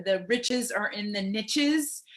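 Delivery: short i and tch in niches; niches as "nitches". Shown as a demonstration. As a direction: say niches to rhyme with riches. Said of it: "not niche, even though some people have".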